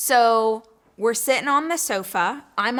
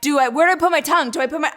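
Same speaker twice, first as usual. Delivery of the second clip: nervous babbling; 3 semitones higher, 4 dB louder, faster than usual. Retold or imitated. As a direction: blurt the inner questions out loud. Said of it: "I'm so nervous".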